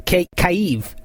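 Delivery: a false start on K, then Kyiv; halting restart on Kyiv; stumbling over Kyiv. Real, not acted. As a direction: trip on the first sound of Kyiv and try again. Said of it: "I can't say that fucking word".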